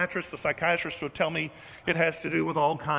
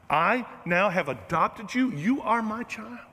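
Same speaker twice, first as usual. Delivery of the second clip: slow, deliberate loving declaration; loving voice of God; 2 semitones higher, slower than usual. Acted. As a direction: claim them slowly and tenderly as your child. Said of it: "our God has a different voice".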